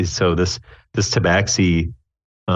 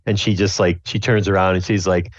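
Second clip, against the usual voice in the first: ordinary talk, nothing marked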